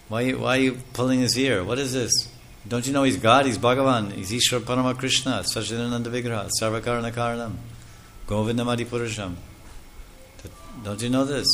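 a sage lecturing the parents, lightly voiced; scolding sage. Sages scolding Yashoda about Krishna.

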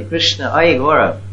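slow, drawn-out devotional call; unhurried, beseeching call; humble calling out. Shown as a demonstration. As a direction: call to God slowly, with humility. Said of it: "we must have humility".

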